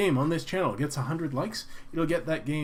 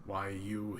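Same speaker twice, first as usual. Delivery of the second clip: threatening; 4 semitones lower, 6 dB quieter than usual. Acted. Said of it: "he threatens".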